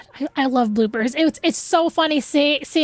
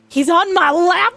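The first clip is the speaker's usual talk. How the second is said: excited gush; 2 semitones higher, 4 dB louder than usual. Real, not acted. Gushing over character.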